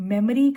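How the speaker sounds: "memory" as MEM-uh-ree; correct memory. Shown as a demonstration. Teacher modelling a silent O, correct pronunciation. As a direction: keep the O of "memory" unstressed. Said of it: "इसमें ओ की sound नहीं आती है".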